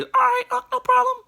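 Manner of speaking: put-on very high kid voice; agreeable nephew. Nephew agreeing to give up his bed, very high kid voice. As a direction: answer brightly like a young boy.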